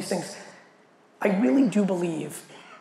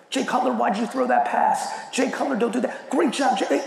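mock sports fan; 5 semitones higher than usual. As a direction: play the die-hard fan hollering at his quarterback. Imitating fan's tweets to quarterback.

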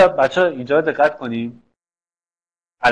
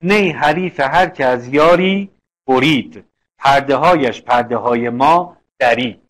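verse recitation; 4 dB louder than usual. Shown as a demonstration. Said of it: "مثال رو نگاه کن".

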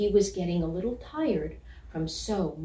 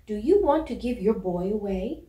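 polite call out; 2 semitones higher, 4 dB louder than usual. Acted. Puppy politely calling to a collie chasing a bicycle, louder. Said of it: "He called out to the collie".

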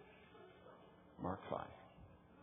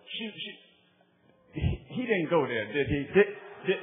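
offended church sister; 5 semitones higher, 12 dB louder than usual. Retold or imitated. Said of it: "one of the sisters in Pittsburgh".

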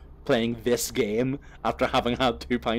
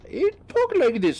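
put-on high, loud, over-the-top Donegal accent; broad Donegal accent; 7 dB louder than usual. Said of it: "probably fairly offensive Irish accent".

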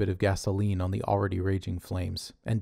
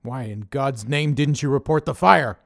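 louder, higher furious boss; angry demand; 5 semitones higher, 7 dB louder than usual. A narrator's reading. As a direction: rage at him for hiding it. Dave raging at Connor.

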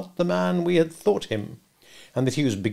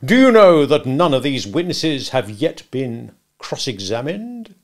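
slow, loud, leading question; bullying cross-examiner; 3 semitones higher, 6 dB louder, slower than usual. Acted. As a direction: press the witness hard. Stranger cross-examining Mister Wopsle.

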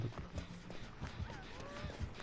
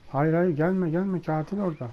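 urgent shouting; 3 semitones higher, 3 dB louder than usual. Real, not acted. Warning teammate killer is near.

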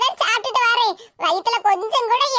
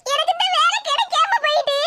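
high tearful complaint; crying; 5 semitones higher than usual. Acted. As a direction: plead through tears to be understood. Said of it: "இப்படி கிடந்து கண்ணீரை வடிக்க". (கண்ணீரோடு புலம்பல்)

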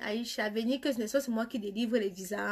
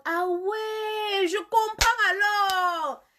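high, drawn-out singsong cry; exaggerated realization; 9 semitones higher, 5 dB louder, much slower than usual. Real, not acted. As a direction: stretch it out high as if it all suddenly makes sense. Mock realization at viewer's comment. (révélation exagérée, aiguë et chantante)

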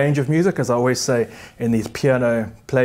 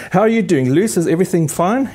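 higher, sing-song pet talk; cooing to the dog; 5 semitones higher than usual. Real, not acted. Pianist cooing at her dog Luce, sing-song pet talk. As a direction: coo it like you're asking a dog how it's doing.

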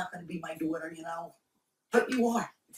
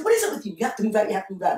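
mock exasperation; 5 dB louder, much faster than usual. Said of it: "And then I said".

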